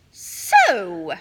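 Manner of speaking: a cold, breathless whisper of disapproval; menacing whisper. Acted. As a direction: hush it like a mother about to explode. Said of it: "she said".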